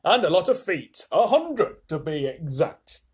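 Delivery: proud centipede. Acted. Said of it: "centipede answered proudly".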